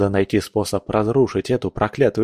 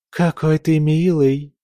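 sing-song; 6 semitones higher, slower than usual. A narrator's reading. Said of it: "пропела она".

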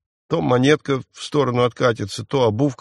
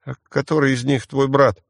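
ordinary delivery

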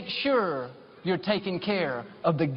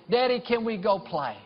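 put-on a light, higher little-girl voice asking to play; toddler voice; 5 semitones higher than usual. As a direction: lightly voice a small daughter pleading. Toddler daughter voiced in story.

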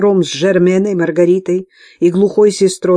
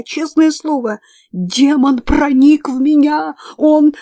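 hysterical; 8 semitones higher, 4 dB louder than usual. A narrator's reading. Hysterical nun claims possession.

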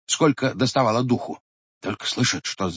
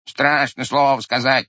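bleating ram; 4 dB louder than usual. Acted. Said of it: "заблеяла баранья голова".

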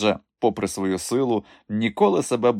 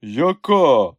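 barely breathed out; 5 semitones higher, 5 dB louder than usual. Acted. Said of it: "насилу видихнув Іван".

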